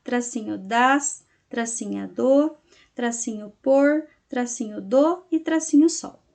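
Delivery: slow, drawn-out syllables separated by "tracinho"; teacher stretching out each syllable; syllable-by-syllable dictation. Shown as a demonstration. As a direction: dictate each piece slowly for note-taking. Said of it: "vocês vão colocar pras".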